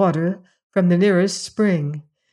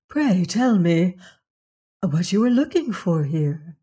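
measured, courteous question; very polite. A narrator's reading. Princess questioning the guards, very polite. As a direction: ask gently and politely, taking your time. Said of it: "she said to them very politely".

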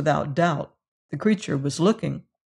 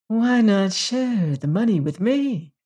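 silky tones; 4 semitones higher than usual. A narrator's reading. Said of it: "said Peters in silky tones".

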